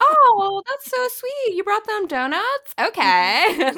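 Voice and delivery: high-pitched sugary cooing over a gift; mock gushing. Podcaster mimicking the reaction to gifted donuts, gushing. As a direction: play it touched and delighted, pitched high.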